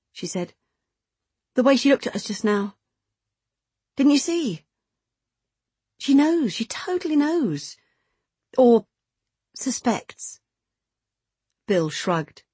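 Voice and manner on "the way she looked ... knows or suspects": lightly voiced insistent woman, pitched higher; a higher, urgent woman's line; worried secret lover. Woman insisting to her lover that they were seen, urgent.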